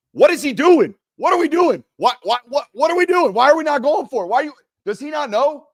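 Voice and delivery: high, loud, frantic yelling at the TV; frantic disbelief. Retold or imitated. Fan pacing at home yells at coach in frantic disbelief. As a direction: shout it like a fan pacing in panic. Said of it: "I'm standing up going".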